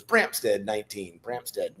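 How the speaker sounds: soft, low muttered chant of the name; quiet repeated name. Retold or imitated. Instructor murmuring a lagging recruit's name, quiet chant. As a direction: drone the name under your breath.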